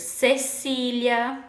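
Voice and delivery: "Cecília" drawn out slowly with both Cs as S; teacher sounding out "Cecília"; soft C demo. Shown as a demonstration. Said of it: "tem o som de S".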